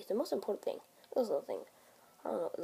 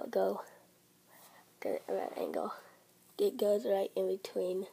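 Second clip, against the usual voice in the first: brushing teeth while talking; toothbrush in mouth. Real, not acted. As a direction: mouth partly blocked by brush. Seen 0: Small brace brush inside mouth most of the time, briefly out around 2s.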